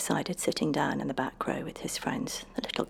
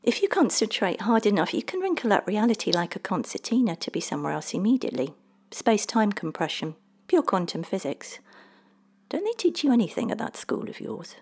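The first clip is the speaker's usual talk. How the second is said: slightly raised, lively know-it-all little man; breezy little man; 5 semitones higher, 3 dB louder than usual. Acted. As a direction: explain it as if obvious, going higher on the question. Little man explains to the boy.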